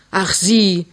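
cross brush-off; still cross. Acted. Mother brushes off young suitor, still cross. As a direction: dismiss him with lingering anger. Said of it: "sagt sie noch böse".

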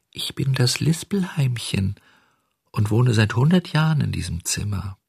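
high, whispered lisping little voice; slushy lisp. Acted. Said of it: "lispelte ein zartes Stimmchen".

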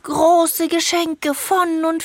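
tearful, whining complaint; whiny crying. Acted. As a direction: sob out the complaint. Plans ruined, whining complaint.

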